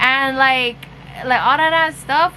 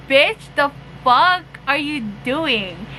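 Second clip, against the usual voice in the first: baffled; slower than usual. Retold or imitated. Catching friend rubbing boyfriend's thigh.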